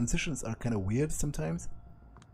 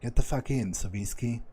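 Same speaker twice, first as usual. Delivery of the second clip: raspy voice. Acted. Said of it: "a raspy voice comes from the inside".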